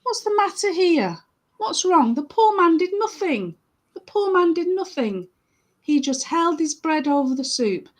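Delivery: indignant defence. Acted. Johar defends the poor man.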